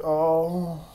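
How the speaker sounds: high, slow, whiny mock voice; high mocking whine; mocking whiny critics. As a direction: drag it out like a crybaby complaint. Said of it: "Dumbasses fucking decide to start crying about it".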